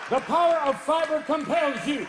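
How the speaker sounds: loud, booming ritual chant; exorcist command. Acted. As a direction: proclaim with force. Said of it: "priest to do a rectal exorcism".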